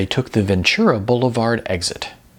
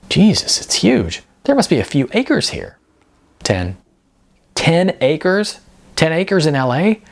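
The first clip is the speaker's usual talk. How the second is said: amazed; 8 semitones higher than usual. A narrator's reading. Sean to Mike on seeing the land, astonished. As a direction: voice leaps up in astonishment.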